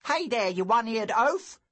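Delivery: put-on older bully boy barking at Lou; bully's shout. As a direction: snarl at the little one-eared boy. Bully Hervid confronts Lou.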